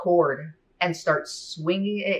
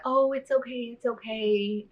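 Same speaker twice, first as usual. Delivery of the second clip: much higher, soothing retold reassurance; comforting; 8 semitones higher than usual. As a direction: hush a crying child, mock-gentle. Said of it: "she tries to comfort me".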